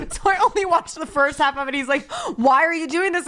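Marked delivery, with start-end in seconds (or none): 2.4-3.3 higher-pitched mock exasperation; baffled protest. Imitating Joe questioning the tearful viewer, baffled. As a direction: plead in raised-pitch disbelief.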